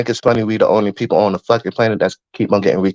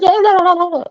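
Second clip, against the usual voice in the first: high singsong la-la drowning someone out; mocking overtalk; faster than usual. Shown as a demonstration. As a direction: sing la la over them, much higher. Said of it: "then I just overtalk it like".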